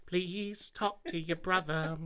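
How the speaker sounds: slow, drawn-out mock plea; slow pleading. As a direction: beg slowly and theatrically. Mock plea, slowed right down.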